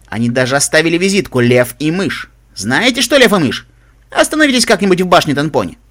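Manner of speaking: lively, projected broadcast delivery; radio DJ. Acted. DJ tells listeners of two heroes, energetic broadcast. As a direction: address the listeners with verve.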